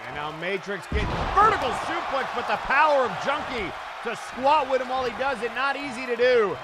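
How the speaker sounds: excited live ring commentary; wrestling commentator. Acted. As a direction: call the match blow by blow.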